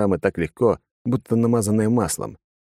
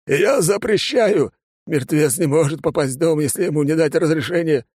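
frantic forbidding; 9 semitones higher than usual. Acted. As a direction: hold off the dead with a shaky command. Father forbidding the dead entry.

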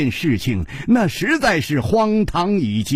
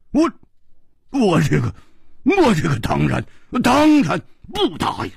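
stammering glare; 3 semitones higher than usual. Acted. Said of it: "瞪着眼睛说".

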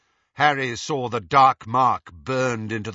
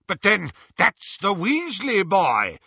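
high, loud excited cry; shouted; 10 semitones higher, 6 dB louder than usual. A narrator's reading. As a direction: shout the discovery. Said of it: "shouted Lucius".

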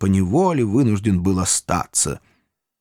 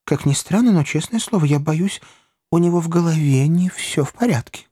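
a higher, uneasy hushed confidence; fearful; 7 semitones higher than usual. A narrator's reading. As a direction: sound wary of the boy. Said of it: "боязливо посматривая на парня". (боязливо, с опаской)

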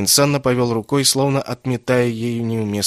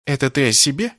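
innocent tone; 5 semitones higher than usual. Acted. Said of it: "невинным тоном поинтересовался Кэссин".

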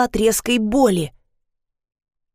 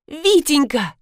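pleading; 6 semitones higher, slower than usual. Acted. Wife pleading with husband.

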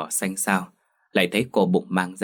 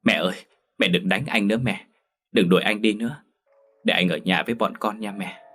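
mild whimpering plea. Acted. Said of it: "mếu máo nói".

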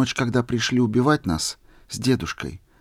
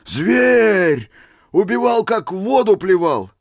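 much higher, loud denunciation; heated exclaim; 9 semitones higher, 5 dB louder than usual. A narrator's reading. Old man denouncing the sailor, loud and heated. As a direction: spit out the accusation.

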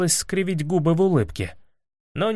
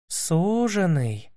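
slow, coy, tearful echo; drawn-out flirty sob of a question; a princess coyly asking through tears; coy sniffling question; 3 semitones higher, 3 dB quieter, much slower than usual. A narrator's reading. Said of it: "кокетливо всхлипнула".

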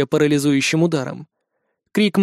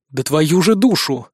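frustrated oath; slower than usual. A narrator's reading. Narrator swears in frustration.

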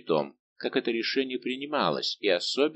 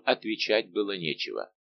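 plain reading voice

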